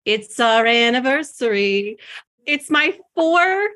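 high, slow, hammed-up radio host welcome; a playful, over-the-top podcast host greeting listeners; goofy announcer voice. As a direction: stretch it out like a dorky show host announcing a big day. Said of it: "Why did I just do that?".

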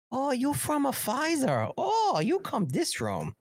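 high mock East Asian accent. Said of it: "Asian accent comes".

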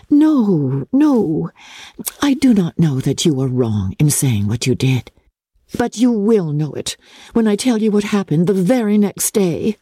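lightly voiced gentle sister; Jane's voice. Jane speaks.

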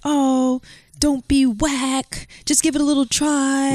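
high teasing mimicry of her partner; mimicking her partner's peer pressure, high and teasing; mocking imitation. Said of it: "You were like".

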